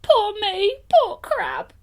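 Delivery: high, loud desperate blurt. Acted. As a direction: blurt it out in a high cry of despair. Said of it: "he blurted out".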